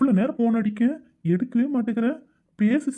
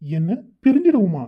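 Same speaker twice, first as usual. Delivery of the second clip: louder, shocked and indignant, rushing at the end; angry disbelief; 3 dB louder than usual. Acted. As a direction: fire back in outraged disbelief. Boyfriend hears breakup. (பிரிவைக் கேட்டு அதிர்ந்த கோபக் குரல்)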